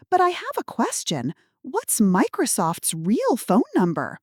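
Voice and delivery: high then slowing, innocent granny question; spring the trap sweetly; innocent old lady. Acted. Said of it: "I maintained my confused elderly woman role".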